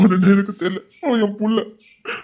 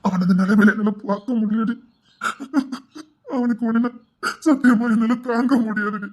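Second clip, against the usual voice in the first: crying. Acted. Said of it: "ஏன் அழுதுட்டு இருக்கீங்க?".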